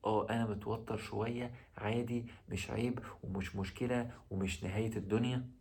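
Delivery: a relaxed shrug in your own head; calm inner voice. Shown as a demonstration. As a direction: talk yourself down gently, like it's no big deal. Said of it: "قول في دماغك بهدوء كده بشويش".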